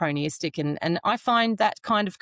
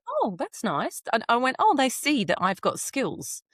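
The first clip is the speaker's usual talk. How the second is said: pleased first reaction; 5 semitones higher than usual. Retold or imitated. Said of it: "That was my initial reaction".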